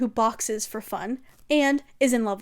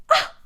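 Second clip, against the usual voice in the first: emotional cry; 4 dB louder than usual. Real, not acted. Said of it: "Crying, crying".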